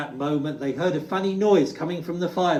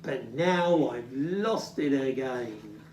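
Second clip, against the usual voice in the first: sniffing; 3 semitones lower, slower than usual. Acted. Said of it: "he sniffed".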